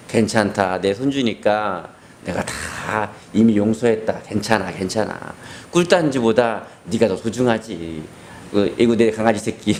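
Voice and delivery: lightly voiced gentle grandma; tender grandmother.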